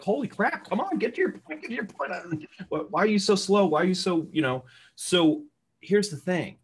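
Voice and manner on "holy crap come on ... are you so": high, exasperated pleading to hurry up; impatient exasperation. Retold or imitated. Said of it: "you're like".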